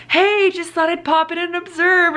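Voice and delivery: high, sing-song drop-in greeting; put-on chirpy boss voice; imitated boss. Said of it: "my boss came in and was like".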